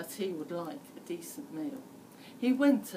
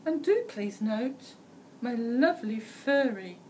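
higher, louder, slowing on the last words; smug little girl; 4 semitones higher, 5 dB louder than usual. A narrator's reading. Red Riding Hood shows off her wolfskin coat. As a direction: show off the coat proudly. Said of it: "She said".

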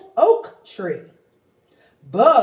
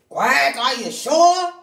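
doubtful duck; 6 semitones higher, 4 dB louder than usual. Acted. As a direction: raise a doubt. Ducky Lucky doubtful.

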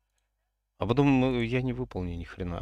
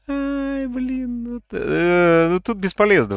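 high frustrated outburst; 13 semitones higher, 9 dB louder, slower than usual. Real, not acted. Frustrated over failed donation.

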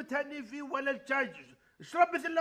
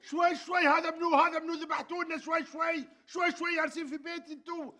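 pleading. Acted. Host pleading for calm.

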